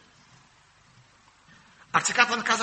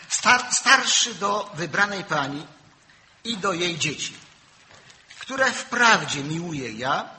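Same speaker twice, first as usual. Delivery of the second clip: solemn scripture reading; 4 dB louder than usual. Acted. Reads scripture slowly.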